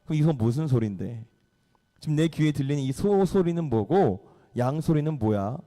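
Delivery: low, unamused questioning; acted grave rebuke; stern. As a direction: confront him with a straight, serious tone. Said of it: "완전 정색을 합니다".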